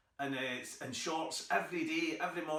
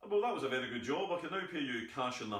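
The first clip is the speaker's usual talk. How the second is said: rattled off; faster than usual. Shown as a demonstration. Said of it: "you cannot say to them".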